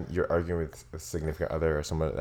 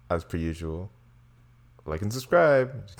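influencer voice; 3 semitones higher, 5 dB louder, slower than usual. Pretend. Co-host closing the episode, put-on influencer voice. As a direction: put on a mock influencer lilt. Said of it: "Your influencer voice?".

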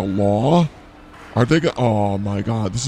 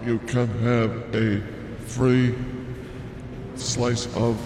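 meat counter announcer; 5 dB quieter than usual. Pretend. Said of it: "Bobby from the meat market".

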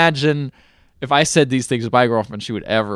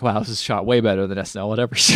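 laughing; 5 semitones lower, much faster than usual. Retold or imitated. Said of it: "and I'm like".

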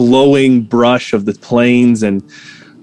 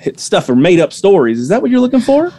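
a hint of the shopkeeper voice; 2 semitones higher than usual.

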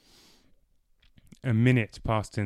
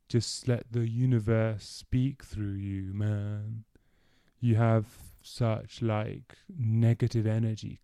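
dreamy stoner. Acted. Dorian imitates a stoner friend, lightly voiced dreamy hippie. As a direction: float it out like a spaced-out hippie. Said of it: "His eyes and voice took on a dreamy quality".

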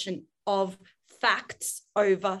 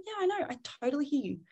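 calm leader; 4 dB quieter than usual. Shown as a demonstration. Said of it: "you're gonna be like".

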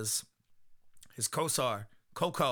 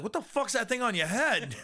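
high-pitched baffled outburst; mock disbelief; 8 semitones higher, 3 dB louder than usual. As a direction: blurt it out in exaggerated disbelief. Acted reaction to odd antenna.

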